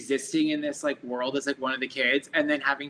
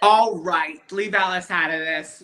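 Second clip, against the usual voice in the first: mock protest; 2 semitones higher, 7 dB louder, slower than usual. Real, not acted. Mock defending Alice.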